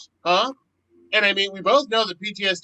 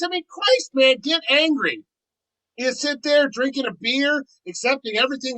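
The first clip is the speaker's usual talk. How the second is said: exasperated urging; 6 semitones higher than usual. Acted. Kyle urges Scott to rage.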